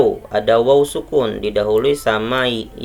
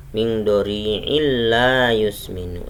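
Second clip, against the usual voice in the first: drawn-out tajweed chant of the verse; slow Quran recitation. Shown as a demonstration. Teacher reciting a verse for students, slow and measured. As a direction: recite slowly, stretching illa. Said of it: "Seperti itu bacanya".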